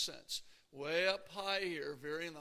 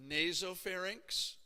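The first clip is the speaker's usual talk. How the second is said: slow, clear term; 3 semitones higher, 4 dB louder, slower than usual. Shown as a demonstration. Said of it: "Divided into three parts".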